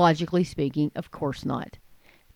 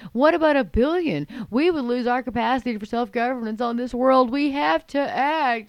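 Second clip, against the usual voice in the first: raised, higher mock rant, slowing at the end; mock screaming; 4 semitones higher than usual. Commentator mimicking Gore's speech, mock screaming. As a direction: ham up a climate alarmist yelling. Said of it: "he's all screaming".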